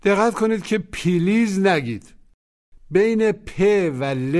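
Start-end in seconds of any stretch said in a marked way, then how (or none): 0.9-1.6 "پلیز" with an extra vowel between p and l; mispronounced please. Shown as a demonstration. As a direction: say "پلیز" as pi-LIZ, splitting the p from the l. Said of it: "هیچ صدایی نباید باشه". («پلیز» با صدای اضافه بین پ و ل)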